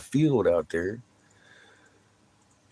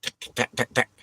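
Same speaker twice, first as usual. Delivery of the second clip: imitated ticking; 4 semitones higher than usual. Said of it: "Every time I went".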